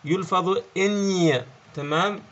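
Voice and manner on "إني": gn said as a drawn-out "إني"; sound demo. Shown as a demonstration. French teacher showing students how gn sounds, drawn out. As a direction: hold the ny sound of "إني" slowly. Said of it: "الجي والإن باللغة الفرنسية يلفظ".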